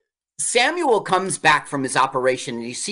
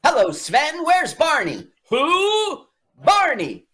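mock fake Swedish accent; 12 semitones higher than usual. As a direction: parody a bad Swedish accent. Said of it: "his accent is so fake and bad".

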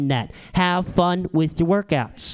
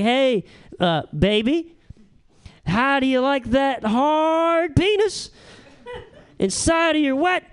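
dirty talk; 7 semitones higher than usual. Pretend. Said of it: "I try to dirty talk".

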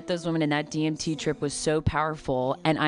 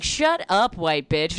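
heckler jeer; slower than usual. Retold or imitated. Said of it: "people would be like".

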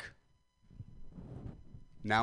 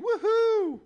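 high, loud mock cheer; a sarcastic woohoo shouted up high; 8 dB louder than usual.

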